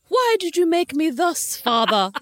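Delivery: slow, high, theatrical lament; hammed-up cry to a father; mock-dramatic plea. Mock theatrical quote of film line.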